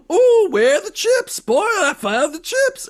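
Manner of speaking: high, breathy mock-excited squeal over chips; mock Nomi squeal. Mocking Nomi hunting for chips, squealing high. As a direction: ham up a giddy snack craving. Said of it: "she's like".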